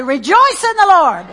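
loud, high repeated chant; preacher leading shouted praise; preaching at full force. Acted. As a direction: drive the crowd to rejoice.

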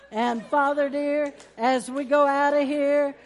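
loud, slow declaring prayer; preaching prayer. Acted. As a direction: proclaim each blessing slowly over the church. Closing prayer over congregation.

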